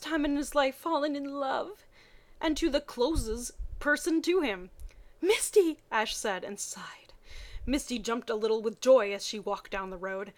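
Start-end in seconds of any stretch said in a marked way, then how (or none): 5.2-5.8 lovesick cry. Acted. Ash blurts out her name.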